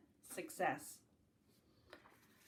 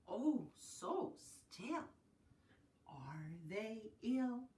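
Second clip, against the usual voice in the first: slow, drawn-out hushed question; hushed wonder; 3 dB quieter, much slower than usual. Acted. Teacher hushing over sleeping bunnies, slow and soft. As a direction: hold back as if not to wake them.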